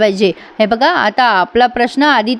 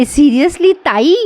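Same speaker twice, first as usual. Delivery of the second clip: sly aside; 3 semitones higher, much slower than usual. Retold or imitated. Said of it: "बोलते ती हळुचकून".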